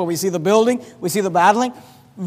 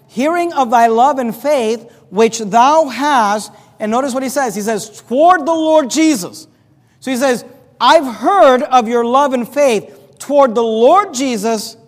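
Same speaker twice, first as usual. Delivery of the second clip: slow, raised scripture declamation; measured pulpit emphasis, pitched up; emphatic preaching; 4 semitones higher, 5 dB louder, slower than usual. Acted. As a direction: preach the verse out, leaning on key words.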